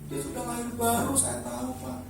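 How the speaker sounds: lightly voiced wife complaining to her pastor. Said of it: "pasti komplain".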